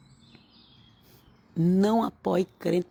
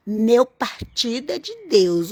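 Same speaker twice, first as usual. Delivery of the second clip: mock evangelical politician; 4 semitones higher, 5 dB louder, slower than usual. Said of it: "Esses políticos, evangélico políticos".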